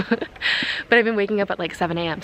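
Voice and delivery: breathless from climbing a hill; winded, catching breath mid-sentence. Real, not acted. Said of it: "I'm out of breath 'cause I'm going up a hill".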